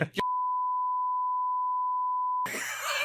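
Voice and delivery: bursts into a high laugh. Real, not acted. Laughing at the neighbor story.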